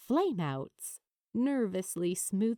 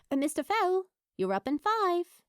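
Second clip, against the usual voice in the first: nervous assistant; 8 semitones higher, faster than usual. Acted. Wardrobe assistant calls Az.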